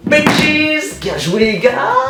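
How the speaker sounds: shouting in triumph; high excited cheer. Real, not acted. Célébration avec le chien. (cri de victoire)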